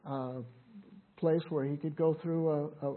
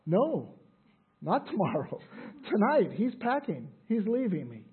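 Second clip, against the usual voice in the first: higher-pitched retold urgency; urgent plea; 3 semitones higher than usual. Wife begs pastor to come tonight, imitated urgency. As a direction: insist on it, imitating an anxious caller.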